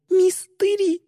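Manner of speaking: frantic chant building to realization; rising frantic repetition. Acted.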